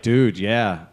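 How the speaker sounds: rough, gravelly guy voice. Retold or imitated. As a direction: growl it out a bit gravelly. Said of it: "he doesn't really sound like that".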